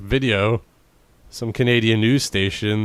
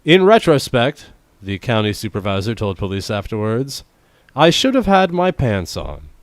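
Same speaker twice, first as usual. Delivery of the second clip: news punchline read; 3 dB louder than usual. Acted. Reading the supervisor's quote to co-host, emphatic news read.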